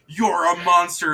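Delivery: loud, high horrified yell; horrified accusation. Acted. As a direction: shriek it at the giant. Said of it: "he goes".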